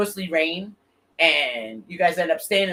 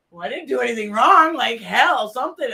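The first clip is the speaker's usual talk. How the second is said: higher, louder mock protest; indignant protest; 7 semitones higher, 6 dB louder than usual. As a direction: act out protesting your innocence. Protests to bystander about the cops.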